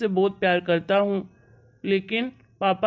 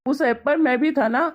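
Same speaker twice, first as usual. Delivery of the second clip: upset protest; 4 semitones higher than usual. Acted. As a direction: push back hard, defending his wife. Son arguing back at his mother.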